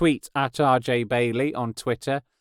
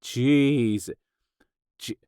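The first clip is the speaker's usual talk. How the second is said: funny voice. Retold or imitated. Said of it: "I was gonna do a funny voice then".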